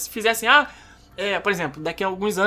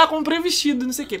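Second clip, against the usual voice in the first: mock excited girlfriend; 6 semitones higher, faster than usual. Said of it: "chegou toda empolgada".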